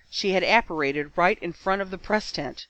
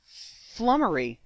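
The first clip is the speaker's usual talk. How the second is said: stuttered; 5 semitones higher, slower than usual. Acted. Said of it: "Eloise stuttered".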